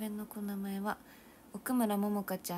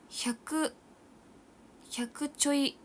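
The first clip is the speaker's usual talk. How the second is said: surprised; 7 semitones higher, 5 dB louder, much slower than usual. Real, not acted. Shocked by low calorie count.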